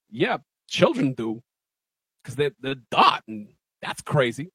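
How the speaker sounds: Christopher Walken. Retold or imitated. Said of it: "impression of Christopher Walken".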